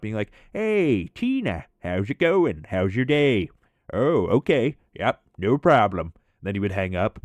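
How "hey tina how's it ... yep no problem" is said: mock suddenly nice to the boss's wife; fake friendly phone voice. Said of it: "immediately switch up".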